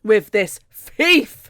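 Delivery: slow, emphatic mock refusal; hammed-up slow defiance; stubborn refusal. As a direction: spell it out word by word, immovable.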